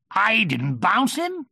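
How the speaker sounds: high, slow, loud denial; Tigger. A narrator's reading. Tigger denying Rabbit's accusation, protesting.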